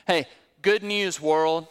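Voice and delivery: mild mock town-crier announcement; proclaiming like Paul. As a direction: call it out like a joyful herald. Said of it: "This is what Paul delighted to proclaim".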